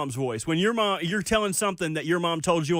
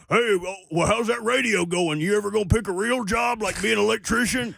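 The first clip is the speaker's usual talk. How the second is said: lightly voiced needling dad, somewhat higher; dad impression; 4 semitones higher than usual. Son mimics dad doubting his radio job, lightly caricatured dad. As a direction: put on a hint of a disapproving father. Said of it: "Here's my dad".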